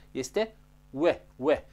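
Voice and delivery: "ue" said as a "we" glide; rounded-lip "ue" without any V; W, not V. Shown as a demonstration. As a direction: push the lips outward for "ue". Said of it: "Deci nu este V".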